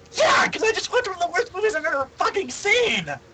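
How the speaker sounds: distraught, traumatized outburst.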